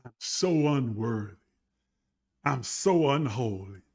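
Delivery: low, subdued mock-pitiful voice; mock self-abasement. Preacher posing as a pitiful pilgrim, mock self-abasement. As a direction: play the poor sinner, low and downcast. Mocking believers' lowly self-description.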